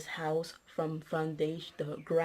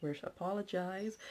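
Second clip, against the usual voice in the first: polite apology; 4 dB quieter than usual. Pretend. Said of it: "You try to calm them down, say".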